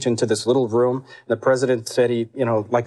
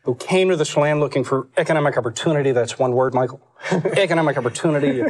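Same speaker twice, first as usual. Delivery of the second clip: lightly voiced Dukakis, earnest campaign tone; a hint of Dukakis making his pitch; Dukakis impression. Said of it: "still do Dukakis".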